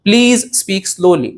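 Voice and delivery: very slow and clear; slow dictation. Shown as a demonstration. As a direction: model it slowly. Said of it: "कसं म्हणणार?". (अगदी हळू, स्पष्ट)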